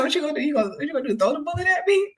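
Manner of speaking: high, incredulous mockery; laughing taunt. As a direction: imitate jeering through giggles, rising at the end. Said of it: "I just started laughing".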